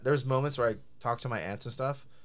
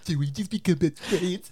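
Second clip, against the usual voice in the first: playful, higher-pitched excited question; mock excited; 6 semitones higher, 3 dB louder than usual. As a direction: act thrilled about a new best friend. Mock discovery of best friendship.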